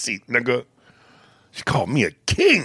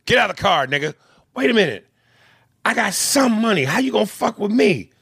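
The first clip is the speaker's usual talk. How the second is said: cop voice; 6 semitones higher than usual. Retold or imitated. Acted police arrest scene.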